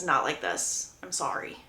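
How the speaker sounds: low, soft, grave refusal; hushed and regretful, dropping away; very solemn. Retold or imitated. Laurel refusing to give her blessing, very solemn. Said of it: "Laurel very solemnly says".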